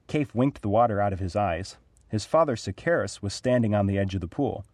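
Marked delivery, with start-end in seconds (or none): none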